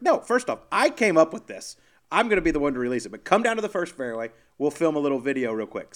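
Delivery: giddy bossy excitement; excited insistence. Retold or imitated. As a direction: stake your claim on the prank. Bossing Dub about the prank.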